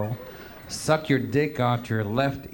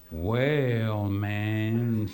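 hip chick; 2 semitones lower than usual. Retold or imitated. Hip security woman looking at it, lightly voiced cool drawl. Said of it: "She goes like this".

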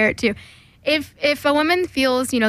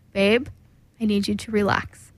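put-on calming boyfriend; 3 semitones lower than usual. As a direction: talk her down gently. Boyfriend voiced calming her.

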